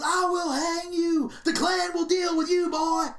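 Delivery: high, slow mock threat, shouted; hammed-up angry shout; threatening Klansman. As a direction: bark the threat like a bigot on TV.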